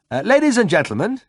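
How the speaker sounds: announcing. A narrator's reading. Narrator voices himself announcing.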